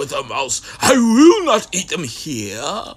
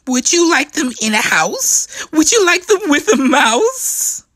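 higher, louder, pestering questions; eager Sam; 8 semitones higher, 4 dB louder than usual. Acted. Sam badgering the grumpy one, eager and rising. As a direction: press the offer, climbing each time.

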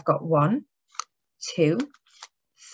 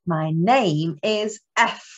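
1 slow model phrase; 3 semitones lower, slower than usual. Shown as a demonstration. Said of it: "We've been doing that".

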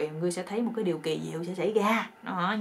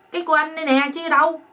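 loud, high husband's retort; hammed-up high protest; acted indignant protest; 8 semitones higher, 7 dB louder than usual. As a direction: insist in alarm, playacting. Husband protests to shocked wife.

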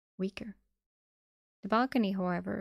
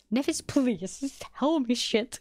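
louder, higher, exasperated plea; exasperated outburst; 4 semitones higher, 5 dB louder, slower than usual. Acted. Sunny begs Nephis to just explain, loud and exasperated. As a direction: burst out pleading, pitched up and loud.

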